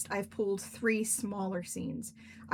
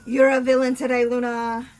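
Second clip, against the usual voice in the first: loud accusation; 2 semitones higher, 12 dB louder than usual. Real, not acted. Listener's villain charge aimed at Luna, loudly called out. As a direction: belt out the accusation. Mock outcry, said twice, loud then slow.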